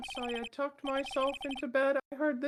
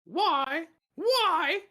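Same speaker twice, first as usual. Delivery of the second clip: indignant yelp; 3 semitones higher, 5 dB louder than usual. Acted. Clown shouts defensively.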